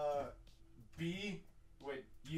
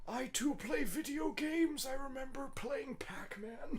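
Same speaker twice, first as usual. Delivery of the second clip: nerd voice; 8 semitones higher, slower than usual. Pretend. Mocking nerdy gamer voice.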